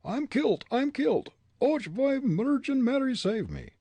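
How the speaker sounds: very high, loud Irish wail. Acted. Irishman crushed by Fritz, wailing in Irish brogue. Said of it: "It was the Irishman's voice".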